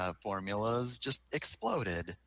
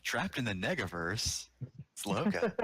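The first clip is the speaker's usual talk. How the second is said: bad phone line. Real, not acted. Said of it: "and so she sounds like this".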